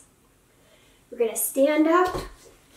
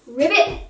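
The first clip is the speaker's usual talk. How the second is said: frog ribbit. Pretend. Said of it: "Can you be a frog".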